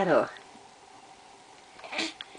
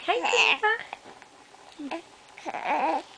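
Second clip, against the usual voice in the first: put-on high baby voice; 5 semitones higher, much slower than usual.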